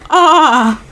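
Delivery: drawn-out "ah" of disgust; mock-horrified groan; retold disgusted groan. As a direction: recoil with a long groan. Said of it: "And I went".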